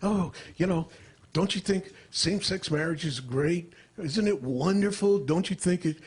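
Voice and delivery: imitating comics needling a straight guy; mock goading. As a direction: egg someone on with leading questions. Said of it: "they're goading me".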